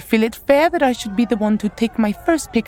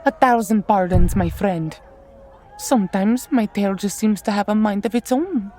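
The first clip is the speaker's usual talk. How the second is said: cheery fake innocence. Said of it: "Zana lied with a bright, cheery smile".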